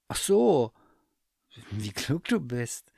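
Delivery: high, admiring bear voice; impressed teddy bear. Acted. Bear flatters the cat, high and admiring. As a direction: sound dazzled by her cleverness. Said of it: "sagte der Bär".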